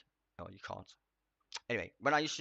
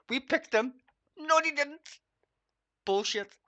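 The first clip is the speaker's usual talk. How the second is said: much higher and louder, shouting it down; shouted denial; 9 dB louder, slower than usual. Real, not acted. Streamer shouting down the host's claim, high and loud. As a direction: yell the denial in outrage. Mocking host then denying.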